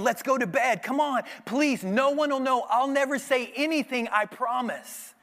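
coaxing temptress. Acted. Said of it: "She keeps saying".

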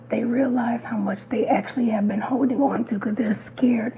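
sultry husky voice from a cold; raspy, sick-sounding voice; hoarse voice. Real, not acted. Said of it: "Mia has her sexy, sultry voice happening right now".

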